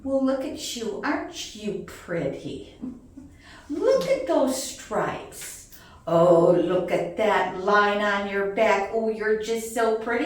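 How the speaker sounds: retold sweet-talk; cooing at snakes. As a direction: draw out the praise. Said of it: "looking at them and going".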